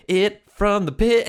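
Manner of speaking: slow, high mock hype call; imitating hype. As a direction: stretch it out like an overexcited buddy. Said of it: "it was fucking cracking me up because he was like".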